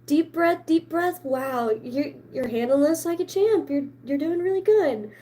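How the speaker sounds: high, soothing mock nurse voice; imitating a kind lady reassuring a nervous client; quoting the sweet piercer. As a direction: coo it like a gentle piercer. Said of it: "She was like".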